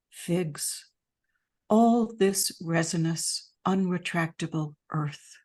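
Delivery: measured poem reading with pauses between lines; unhurried recital, phrase by phrase; poetry reading. Real, not acted. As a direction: read your poem aloud, letting each line stand. Reads own poem on request.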